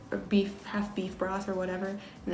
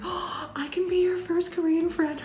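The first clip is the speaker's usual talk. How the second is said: eager friendly offer; 10 semitones higher than usual. Retold or imitated. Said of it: "She's like".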